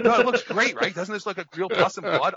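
bragging to the doctor about the fake gore, gleeful; gleeful pride. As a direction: hype up your own handiwork. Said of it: "And I'm like".

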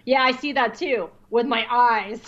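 lightly voiced Jar Jar, deadpan. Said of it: "Jar Jar's voice".

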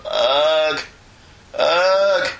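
mock dying with man flu. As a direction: ham up a dramatic death scene. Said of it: "What do you think of my death scene?".

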